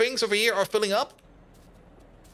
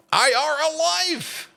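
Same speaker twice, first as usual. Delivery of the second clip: mock announcement; 9 semitones higher, 4 dB louder, much slower than usual. Mock game line.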